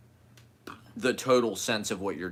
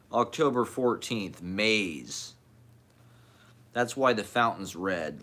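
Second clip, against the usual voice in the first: measured recital of disjointed lines; poetry reading. Acted. Poet reading a dated diary piece to listeners, measured recital. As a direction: read each phrase as its own statement, evenly.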